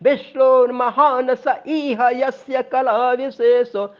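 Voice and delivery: स इह joined smoothly in chant; स इह flowing together; pronunciation demo. Shown as a demonstration. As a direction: link स into इह. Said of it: "स और इह को साथ में".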